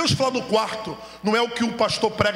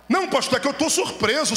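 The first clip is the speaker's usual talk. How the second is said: mock surprised listener; 5 semitones higher than usual.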